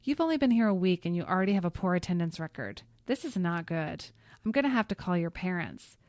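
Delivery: loud stern scolding; stern teacher. Acted. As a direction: scold like a strict headmistress.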